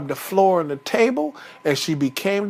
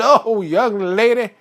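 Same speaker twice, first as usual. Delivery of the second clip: slow, emphatic scolding with a raised voice; mad Papa Bear; 4 semitones higher than usual. Acted. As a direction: tell off the intruder, punching each phrase. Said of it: "Papa Bear got mad".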